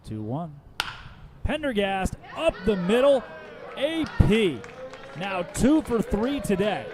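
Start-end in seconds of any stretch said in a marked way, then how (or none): 1.4-6.9 excited call. Real, not acted. Radio announcer calling a hit for fans, bright and excited. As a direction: sell the base hit to the crowd.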